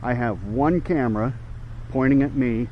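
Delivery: speaking without dentures; gummy, toothless speech. Real, not acted. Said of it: "no dentures in".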